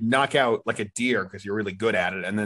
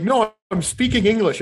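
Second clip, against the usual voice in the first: mock insistent deer; 9 semitones higher, 3 dB louder than usual.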